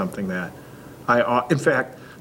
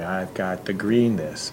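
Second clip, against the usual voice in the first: put-on slow, calm statement for a child; slow modeled statement; slower than usual. Parent modeling slow easy speech to a toddler. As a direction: say it slowly and evenly. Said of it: "and I'd say".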